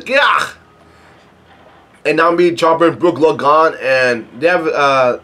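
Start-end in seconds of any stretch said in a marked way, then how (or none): 0.0-0.5 high, sudden cry; yelped "gah". A narrator's reading. Another person faces the giant, yelped "gah". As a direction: yelp out a startled "gah". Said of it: "Another person says".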